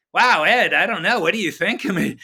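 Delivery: a hint of an anxious Joe on the phone; quoting Theismann. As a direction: play the nervous athlete asking for approval. Quoting Theismann on first call.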